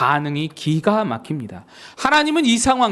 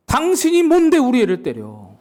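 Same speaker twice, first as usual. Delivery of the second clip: higher-pitched protective outrage; indignant confrontation; 6 semitones higher, 3 dB louder than usual. Acted. Parent confronts the neighbour who hit their child, acted indignation. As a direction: challenge him like an affronted parent.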